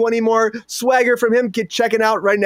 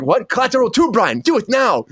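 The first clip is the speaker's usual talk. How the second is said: mock urgent demand; 4 semitones higher than usual. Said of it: "I'm like".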